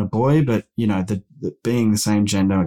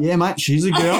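laughing imitation; 8 semitones higher than usual. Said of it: "It was then said".

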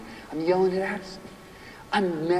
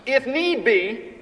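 slow emphatic phrase; 7 semitones higher, much slower than usual. Shown as a demonstration.

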